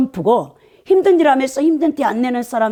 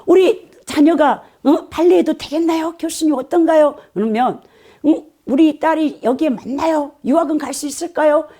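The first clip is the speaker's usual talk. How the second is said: anxious parents; 5 semitones higher than usual. Retold or imitated. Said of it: "예체능하는 학부형들이 다 그러잖아요".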